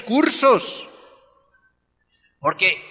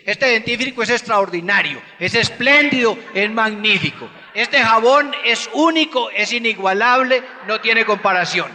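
mock TV ad. Preacher parodying toothpaste and soap commercials, hammed-up. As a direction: sell it like a TV ad announcer. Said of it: "prenden el televisor y dicen".

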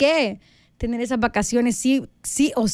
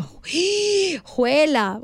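shocked gasp; 4 semitones higher, much slower than usual. Retold or imitated. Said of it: "escucho la nota de voz y digo".

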